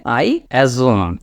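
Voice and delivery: "assume" slow and joined, ending on m; said as one word. Shown as a demonstration. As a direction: hold the m closing "assume". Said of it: "এটা একসাথে". ("assume" একসাথে, শেষে ম টেনে)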